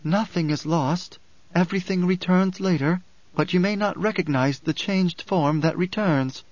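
measured, solemn oracle's reply; intoning. A narrator's reading. Alia answers the grieving mother about loss, intoning. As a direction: pronounce it evenly as prophecy. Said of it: "Alia intoned".

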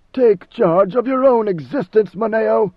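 loud, slow, high furious order; angry command. Acted. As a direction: unleash pent-up rage at him. Leto glares, pent-up emotions.

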